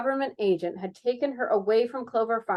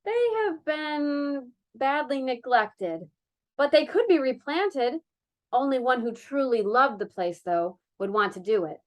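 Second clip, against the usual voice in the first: softened; 4 semitones higher than usual. Acted. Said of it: "She tried to soften it".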